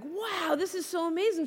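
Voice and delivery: lightly voiced kid's awe; amazed child. Daughter watching cat videos with mom, amazed. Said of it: "she's just like".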